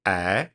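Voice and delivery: "A" held long as an open eh sound; lengthened vowel. Shown as a demonstration. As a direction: draw out the vowel in "A". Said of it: "and is lengthened".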